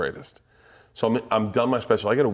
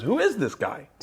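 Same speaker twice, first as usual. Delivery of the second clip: amazed dad; 13 semitones higher than usual. Retold or imitated. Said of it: "he goes".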